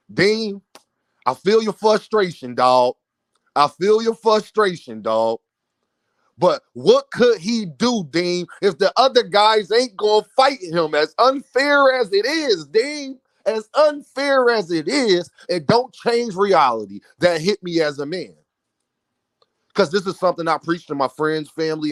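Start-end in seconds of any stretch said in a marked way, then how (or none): 0.1-3.0 a hint of someone else's drawn-out phrasing; Knockout impression. Host quoting Knockout's message to Dean, lightly imitated. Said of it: "I gotta say it like Knockout say". 3.5-18.3 lightly imitated fan, slow and measured in places; a touch of someone else's emphatic phrasing; Knockout impression. Host relaying Knockout's frustration to viewers, lightly imitated. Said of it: "I gotta say it like Knockout say".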